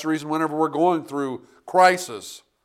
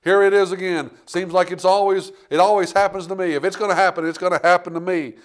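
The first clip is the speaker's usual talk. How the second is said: mock complaining; 3 semitones higher, 4 dB louder than usual. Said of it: "You didn't hear him say".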